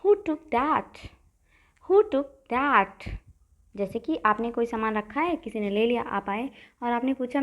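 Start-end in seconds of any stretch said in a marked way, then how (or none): 1.9-3.1 very slow, word by word; slow repeat. Shown as a demonstration. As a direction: repeat it slowly for students to copy. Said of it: "कहिए".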